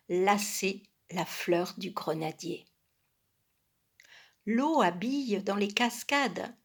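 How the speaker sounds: measured, formal verse reading; poem recitation. Acted. Reader reciting a springtime poem, measured poem recitation. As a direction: recite old verse with careful pauses.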